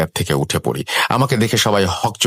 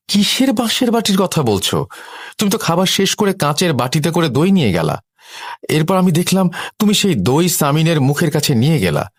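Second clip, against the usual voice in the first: much higher voice, protesting in disbelief; incredulous sister-in-law; 9 semitones higher than usual. Acted. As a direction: contradict her insistently, pitched high. Sister-in-law disputes the bowl story. (অবাক ননদের চড়া গলায় প্রতিবাদ)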